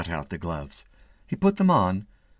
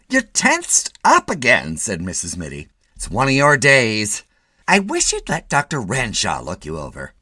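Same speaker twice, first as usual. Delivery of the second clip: fussing wife; 3 semitones higher, 7 dB louder than usual. A narrator's reading. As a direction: fret over him like a worried wife.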